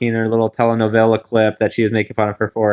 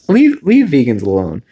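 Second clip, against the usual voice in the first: louder, firm leave-them-alone push; mock protest; 4 dB louder than usual. Host scolding Ross to leave vegans alone, mock protest. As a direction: stick up for vegans with a playful scold. Defending vegans from Ross's shade.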